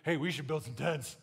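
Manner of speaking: awkward blurt. Retold or imitated. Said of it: "All I could say is, like".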